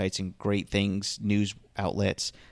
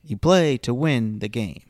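louder, slower, half-hearted Herm Edwards; mild Herm Edwards impression; 3 semitones higher, 7 dB louder than usual. Shown as a demonstration. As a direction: give it a weak coach shout. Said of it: "Do it".

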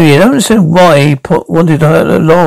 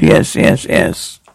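whispered yes, fading to almost nothing; broken whisper; 11 semitones lower, 6 dB quieter, much slower than usual. Acted. Cornered man confessing to the detective, whispered. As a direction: barely breathe the admission. Broken admission under questioning.

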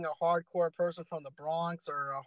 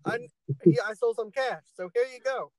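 goofy character voice; 5 semitones higher than usual. Retold or imitated. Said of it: "He went on ahead and said".

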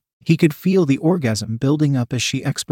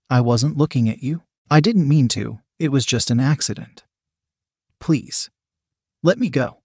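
gently pleading, a touch desperate; understated plea for mercy. A narrator's reading. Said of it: "in a pleading tone".

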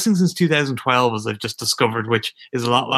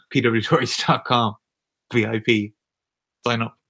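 ad read. Acted. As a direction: plug it like a sponsor spot. Mock ad read for website.

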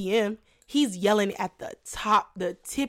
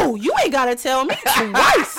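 laughing; 3 semitones higher, 4 dB louder than usual. Retold or imitated. Sassy reply while laughing.

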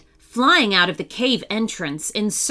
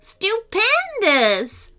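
very slow, high, stretched troll exclamation; slow heavy troll growl; 9 semitones higher, much slower than usual. A narrator's reading. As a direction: draw it out like a pompous troll. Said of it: "said another".

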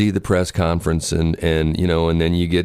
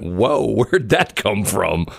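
laughing surprise; 2 semitones higher, much slower than usual. Retold or imitated. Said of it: "and I went".

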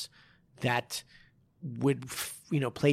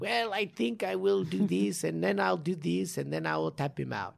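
GSP impersonation; 5 semitones higher than usual. Retold or imitated. Imitating a calm fighter in a podcast bit. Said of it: "that was my G S P impersonation".

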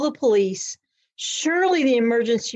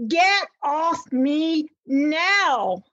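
screamed; 6 semitones higher, much slower than usual. Retold or imitated. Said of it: "I screamed".

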